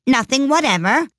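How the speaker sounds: high rising, incredulous question; persistent questioning. A narrator's reading. King pressing Alice, high persistent question. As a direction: press the witness with a lifted pitch. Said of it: "persisted the king".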